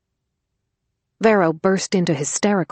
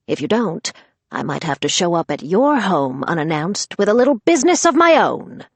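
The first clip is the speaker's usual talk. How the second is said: threatening; 4 semitones higher, 4 dB louder than usual. Acted. Grandmother threatens the mother.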